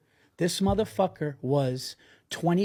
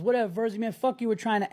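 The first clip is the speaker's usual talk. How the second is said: mock heckler yell; 6 semitones higher, faster than usual. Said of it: "one guy goes".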